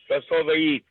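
normal talking voice

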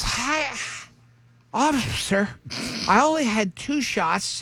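a hint of a drunk mom sweet-talking the cop; chick voice. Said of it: "I'm just doing a chick voice".

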